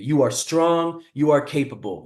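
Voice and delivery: deliberate mantra, STRONG drawn out slowly; slow, measured self pep talk; firm words to oneself, stretched on "strong"; self-affirming mantra. Retold or imitated. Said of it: "I started this mantra".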